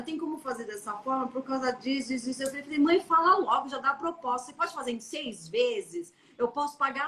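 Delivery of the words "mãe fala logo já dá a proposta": impatient snap. Retold or imitated. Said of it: "sou um pouco grossa pra falar".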